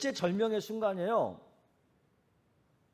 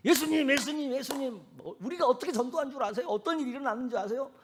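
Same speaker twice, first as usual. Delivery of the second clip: higher, eager rushing voice; excited disciples; 8 semitones higher than usual. Retold or imitated. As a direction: burst in with excited news. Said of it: "흥분이 돼가지고". (흥분해서 들뜬 목소리)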